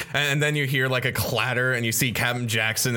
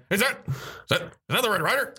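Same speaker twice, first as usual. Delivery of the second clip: high disbelieving question; can't believe your eyes; incredulous; 11 semitones higher, faster than usual. Acted. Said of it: "he's just like".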